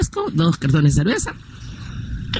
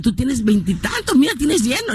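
amazed mother; 6 semitones higher than usual. Retold or imitated. Mother amazed at full restaurant.

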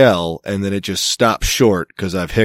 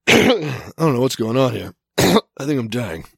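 talking through hiccups and a rough throat; choppy speech broken by hiccups; hiccups and throat clearing; 3 semitones higher than usual. Real, not acted. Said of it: "I got the hiccups on top".

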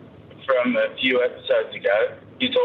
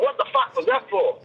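imitating the missus; 9 semitones higher than usual. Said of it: "woke up to the missus going".

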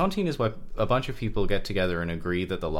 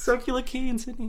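put-on Sydney accent. Mock Sydney voice.

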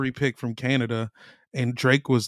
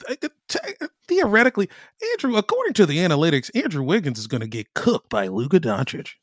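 nasal, nerdy analyst impression; nerd voice; 4 semitones higher than usual. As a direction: play a know-it-all nerd. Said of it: "put on their nerd voice".

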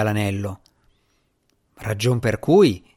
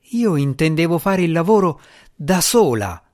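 raised, higher cry; shouted; 5 semitones higher than usual. Acted. Asmira shouting at the djinni in frustration. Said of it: "gridò Asmira".

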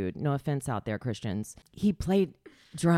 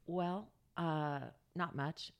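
mom voice; 3 semitones higher, 8 dB quieter, slower than usual. Retold or imitated. Voicing mom on phone.

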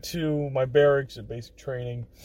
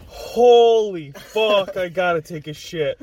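desperate groan; 2 semitones higher, 6 dB louder, slower than usual. Retold or imitated. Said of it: "I was sitting there like".

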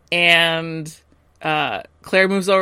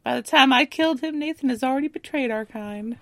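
villain quote; 7 semitones higher than usual. Retold or imitated. Quoting a villain's line.

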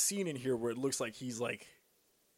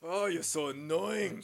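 mock annoyed whine; 5 semitones higher, 4 dB louder, much slower than usual. Playful complaint, slow.

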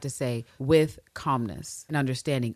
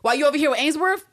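raised, higher-pitched rant building in force; indignant rant; 11 semitones higher, 5 dB louder than usual. Acted. Ann Lister laying down terms to her intended, indignant. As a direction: build from firm insistence into loud outrage.

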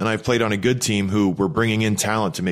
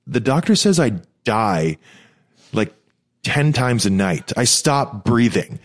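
imitating mom; 2 semitones higher than usual. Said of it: "she's like".

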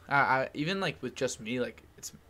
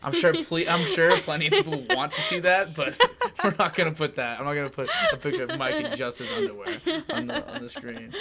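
laughing; 3 semitones higher, 5 dB louder than usual. Real, not acted. Laughing about the underwear picture.

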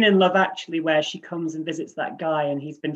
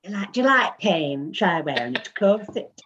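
demo Keira line. Shown as a demonstration. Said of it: "Work on it".

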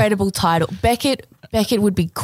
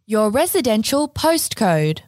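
robot voice. Acted. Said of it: "can I do a robot voice?".

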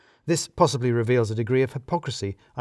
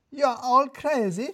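angry Radu; 13 semitones higher than usual. A narrator's reading. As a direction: refuse to sit, furious. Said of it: "it didn't sound like he'd sat".

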